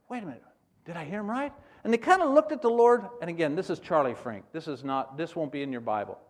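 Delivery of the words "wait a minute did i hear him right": stunned disbelief. Retold or imitated. Disciple stunned by Jesus' order.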